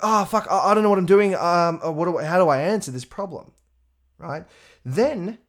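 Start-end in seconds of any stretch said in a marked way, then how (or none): 0.0-3.5 high, loud flustered panic; mock panic. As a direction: act out a stressed newbie panicking. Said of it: "you're like".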